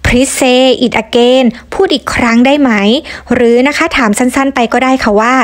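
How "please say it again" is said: slow model phrase. Shown as a demonstration. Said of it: "เช่น".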